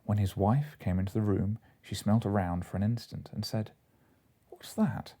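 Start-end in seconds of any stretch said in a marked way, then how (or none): 4.5-5.1 sharp high alarmed question; startled, sniffing out the smell. A narrator's reading. Wife alarmed at cheese smell.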